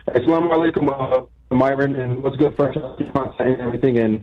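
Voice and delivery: muffled caller on a bad line; muffled phone. Real, not acted. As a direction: talk with the phone held away. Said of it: "You're a bit muffled".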